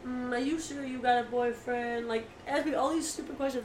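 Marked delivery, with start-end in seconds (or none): 0.1-2.1 slow, leering mock creep voice; creepy drawl. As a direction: drag it out like a creep. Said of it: "he was like".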